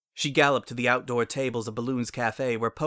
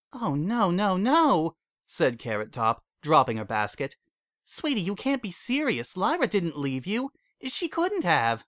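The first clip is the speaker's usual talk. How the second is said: alarmed Carrot Top; 7 semitones higher than usual. A narrator's reading. Carrot Top begs her friend to see it can't be true, alarmed. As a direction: refuse to believe it, sweetie.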